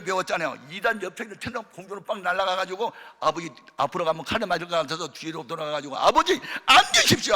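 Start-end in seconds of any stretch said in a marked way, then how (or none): 6.0-7.3 higher, louder firm order; half commanding. Retold or imitated. Son ordering his father to sit down, commanding. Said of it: "반명령식으로".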